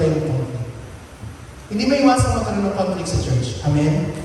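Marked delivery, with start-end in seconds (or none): 3.7-4.1 calling for amen. Real, not acted. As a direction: prompt the congregation to answer. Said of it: "pastor calling for response".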